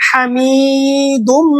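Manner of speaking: হামিদুম with a heavy throaty ḥa; correct Arabic pronunciation. Shown as a demonstration. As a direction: breathe the h of হামিদুম hard from the throat. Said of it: "বড় হা উচ্চারণ করে উচ্চারণ করতে হবে".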